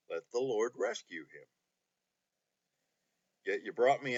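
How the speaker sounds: earnest Bible reading with long pauses between verses; scripture reading. Acted. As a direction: read the psalm with weight and pauses. Resumes reading the psalm.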